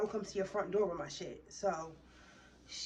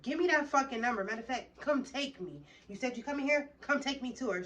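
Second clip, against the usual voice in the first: raised, louder insistent orders; heated demand; 4 semitones higher, 4 dB louder than usual. Retold or imitated. Demanding the babysitter's number from the girl, heated. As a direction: push hard for the number.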